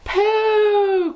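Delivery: high, loud squawking cry; crowd of witches crying out. Acted. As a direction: squawk it in disgust. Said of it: "cried the audience".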